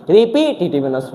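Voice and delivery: रिपीटेटिवनेस said clearly as ri-pi-ti-tiv-ness; model pronunciation. Shown as a demonstration. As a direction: repeat रिपीटेटिवनेस for students to copy. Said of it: "इसकी pronunciation यही होती है".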